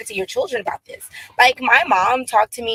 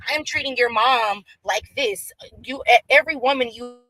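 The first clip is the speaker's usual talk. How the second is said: choppy, warbling call audio; words breaking up on a bad connection; glitching call audio. Real, not acted. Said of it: "you're glitching out again".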